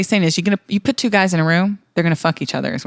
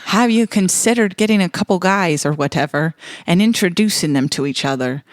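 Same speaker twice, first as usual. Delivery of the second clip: put-on loose, slipping Irish accent; lightly attempted Irish accent. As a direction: read it in an amateurish Irish accent. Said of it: "I'm losing my Irish accent here".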